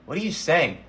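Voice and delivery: baffled questioning, lightly acted; a touch of bewilderment; utterly confused. A narrator's reading. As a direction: act out a confused character. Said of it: "in the most confused way imaginable".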